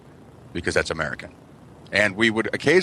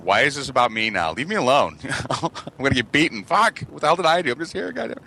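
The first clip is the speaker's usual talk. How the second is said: put-on panicked kid; 6 semitones higher than usual. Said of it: "And I'm like".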